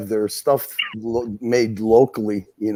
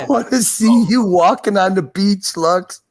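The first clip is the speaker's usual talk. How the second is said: laughing; 9 semitones higher than usual. Pretend. Mock flirting, laughing.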